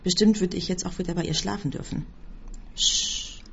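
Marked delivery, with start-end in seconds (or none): 2.7-3.4 whispered shh; whispered hush. A narrator's reading. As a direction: hush someone gently. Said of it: "flüsterte ich".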